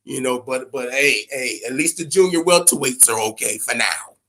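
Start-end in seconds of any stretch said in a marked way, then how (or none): 1.3-4.2 "for now" given extra weight at the end; stress on for now. Shown as a demonstration. Host warns fans the division is only fine for now, stressing "for now". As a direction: lean on "for now" as a warning. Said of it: "I put the emphasis on for now".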